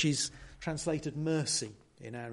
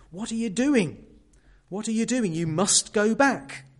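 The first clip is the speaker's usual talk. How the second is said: alarmed call; 6 semitones higher, 6 dB louder than usual. Retold or imitated. Frodo's alarmed cry from the boat.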